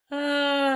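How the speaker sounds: loud, wide-open ah released at once; big open ah. Shown as a demonstration. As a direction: let out a big, full ah. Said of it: "with a big ah sound".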